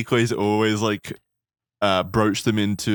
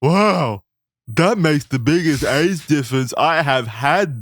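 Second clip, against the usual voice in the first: fat nerd voice; 4 semitones higher, slower than usual. Acted. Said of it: "your fat nerd voice with the lazy eye".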